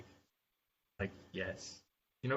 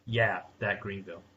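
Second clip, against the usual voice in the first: smug, taunting ad line; condescending; 3 semitones lower than usual. Retold or imitated. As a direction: sneer it like a know-it-all. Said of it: "And it was condescending".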